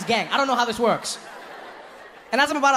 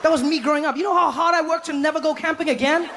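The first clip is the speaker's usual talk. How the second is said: laughing disbelief; 8 semitones higher than usual. Retold or imitated. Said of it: "I'm like".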